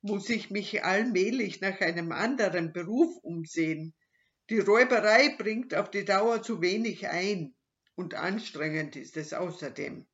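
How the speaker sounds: loud, gruff robber complaining; a lightly voiced grumbling robber; gruff robber musing. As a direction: grumble like a tired old robber. Robber's inner monologue.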